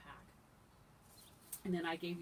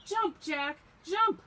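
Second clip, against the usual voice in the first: high, loud urgent shouts; punchy high-pitched calls; hollering mother; 11 semitones higher, 15 dB louder, much slower than usual. Acted. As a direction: holler a warning up to your child. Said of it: "she hollered".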